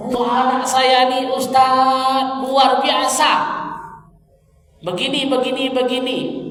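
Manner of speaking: high, loud, drawn-out parent's grumble; complaining parent. Acted. Acts a parent complaining to the ustaz.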